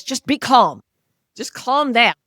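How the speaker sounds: loud, exasperated command to calm down; snapping at an anxious friend to calm down; mock impatient order. Telling anxious Doug to calm down, loud and exasperated.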